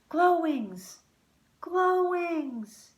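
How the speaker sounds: high, loud call across the tree. A narrator's reading. Luke calls out for Glowwings in the tree. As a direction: call her name eagerly. Calling out to fairy.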